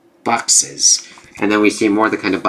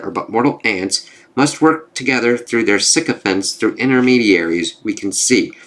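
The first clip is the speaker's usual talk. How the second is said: measured recitation of rhymed lines; verse story reading. Acted. Storyteller explains the cosmos to the gods in rhyme, measured recitation. Reads rhymed comic speech aloud.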